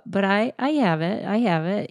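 broad Chicago accent on the vowel of "have"; "have it" with a flat, nasal Chicago A. Shown as a demonstration. Asked why she doesn't have it, she shows her Chicago accent. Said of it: "You're, you're saying have it".

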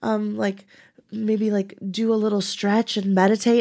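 a hint of a sugary mom waking her daughter; sweet mom voice. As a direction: coax gently like a sweet mother waking her kid. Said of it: "wakes me up so sweetly".

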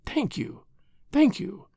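breathless whispered "thank you"; overcome, barely voicing it. A narrator's reading. Grateful wife thanks husband.

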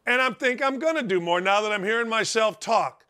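ordinary talk

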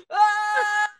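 high shouted "Ah!"; climax yelp. Pretend. Imitated climax cry.

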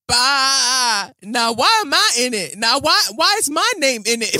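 bleat, then high, loud goat protest; indignant goat. Acted. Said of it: "those goats must have been like".

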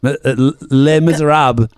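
"Les Miserables" in a French accent, ending -ahb. Shown as a demonstration. Correcting a co-host's title, "Les Miserables" in a French accent. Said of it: "inappropriate accent when you do".

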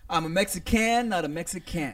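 lightly voiced Mexican accent; a hint of a Mexican accent on Mexican. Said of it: "She had the accent".

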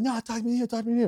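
put-on stubborn drunk refusing; drunk frat boy. Drunk self voiced again.

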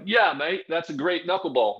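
quick Aussie impression of a teammate; hearty mock Australian accent. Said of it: "That's not a bad accent".

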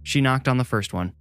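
ordinary delivery

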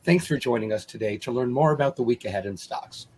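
hoarse, fading voice; talking through a losing voice. Real, not acted. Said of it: "I'm losing my voice".

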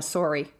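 "sorry" said the Canadian way, first vowel as in "sore". Shown as a demonstration. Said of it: "You just did it perfectly".

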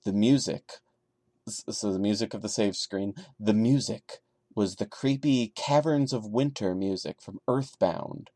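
story reading. Acted. Reads the creepypasta aloud.

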